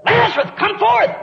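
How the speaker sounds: high, loud summons into the tomb; a ringing shout of command; commanding call. Acted. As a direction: call the dead man out with full authority. Jesus calls dead man from tomb.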